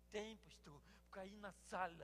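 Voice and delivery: hushed woman's answer; quiet voice. Retold or imitated. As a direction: answer quietly so the boy won't hear. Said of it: "Tem que falar baixinho?".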